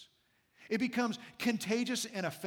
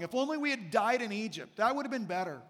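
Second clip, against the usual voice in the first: mildly voiced grumbling crowd; a touch of mock grievance; 2 semitones higher than usual. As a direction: complain as the aggrieved community. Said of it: "this whole community is grumbling".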